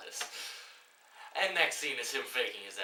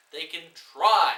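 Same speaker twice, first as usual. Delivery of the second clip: loud sarcastic snap; loud mocking jab; scornful loud jab; 4 semitones higher, 13 dB louder than usual. Real, not acted. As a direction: throw it out with contempt. Ranting at the film.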